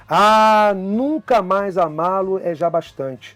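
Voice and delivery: slow, measured poetry reading; a teacher reciting a sonnet to the class; poem recital. Acted. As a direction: read the sonnet with feeling, letting each line land.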